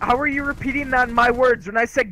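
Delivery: real heated, insistent accusation; yelling. Real, not acted. Confronting the other player over twisted words, yelling angrily. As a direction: argue over them, indignant and forceful. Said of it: "don't yell at me".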